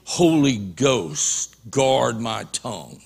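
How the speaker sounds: soft, slow murmured prayer; hushed plea to the Holy Ghost; quiet prayer. Retold or imitated. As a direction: pray it under your breath. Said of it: "You go in there with prayed up".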